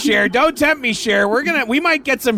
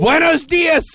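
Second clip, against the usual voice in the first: laughing greeting; 7 semitones higher than usual. Real, not acted. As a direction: laugh through a slow greeting. Host greets fake caller laughing.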